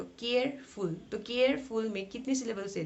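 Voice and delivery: केयरफुल broken as केयर, then फुल; split into syllables. Shown as a demonstration. Teacher showing pupils how to count syllables, split into syllables. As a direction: say केयरफुल in two separate beats. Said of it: "जब उच्चारण करते वक्त".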